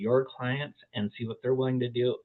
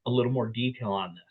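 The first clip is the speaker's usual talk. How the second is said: softer, gently asking for help; sincere, gentle ask; 3 dB quieter than usual. Retold or imitated. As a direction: ease into it, softly and sincerely. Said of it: "be like".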